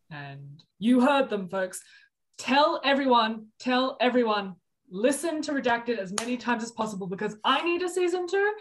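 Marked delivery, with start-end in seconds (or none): 2.4-8.5 higher, louder, rallying the listeners; excited appeal. Real, not acted. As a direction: pump up the crowd for season two. Rallying listeners for season two.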